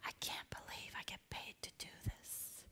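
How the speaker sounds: soft voiceless whisper. Shown as a demonstration. Audience member whispering to a neighbour, hushed. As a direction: breathe it into their ear. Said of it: "very quietly whisper to them".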